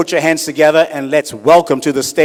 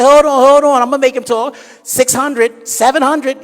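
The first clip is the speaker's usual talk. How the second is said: high excited camp voice; flamboyant guy; 11 semitones higher, 6 dB louder than usual. Acted. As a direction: rush them in a high squeal.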